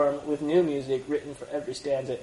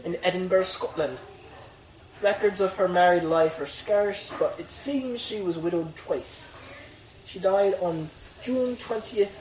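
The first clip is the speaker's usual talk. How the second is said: put-on Irish accent. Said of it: "you were like doing an Irish accent".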